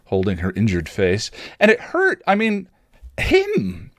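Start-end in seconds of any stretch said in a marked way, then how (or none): 1.6-3.9 excited. A narrator's reading. Willow excitedly realizes the punch proves Tara human, very high. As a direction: burst with the realization. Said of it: "Willow exclaimed excitedly".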